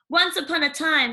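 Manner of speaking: put-on high, bright chatterbox girl; gushing young girl, rising as she goes; eager Cindy telling about animals. Cindy starts a tale.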